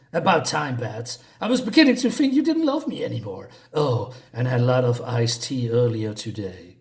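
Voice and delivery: amateurish cartoon villain impression, lightly voiced; Mark Hamill's Joker. Joker greeting his rescuer Batman, badly imitated villain voice. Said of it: "That was my very bad, bad impression of".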